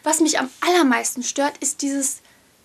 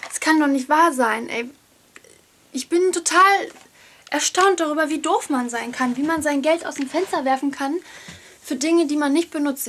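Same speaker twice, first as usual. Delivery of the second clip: out of breath. Real, not acted. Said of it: "ich bin grad die Treppen hochgelaufen".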